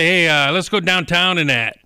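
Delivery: put-on a light Pittsburgh yinzer accent, slow; mock Pittsburgh yinzer. Imitating old Pittsburgh men, a light Pittsburgh accent. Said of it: "the old Pittsburgh ones that say".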